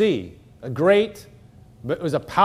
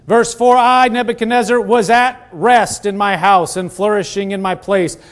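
lifted, projected scripture reading; 4 semitones higher, 5 dB louder than usual. Real, not acted. Preacher reads the king's dream to congregation, projected scripture reading. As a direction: read it out to the room in a raised pitch.

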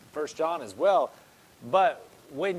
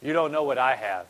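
whiny complaint; 3 semitones lower, 4 dB louder than usual. Retold or imitated. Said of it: "you're reverencing, you're saying".

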